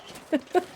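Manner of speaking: high-pitched mock monkey noise; terrible monkey imitation. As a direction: do a badly faked monkey cry. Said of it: "That was a terrible monkey imitation".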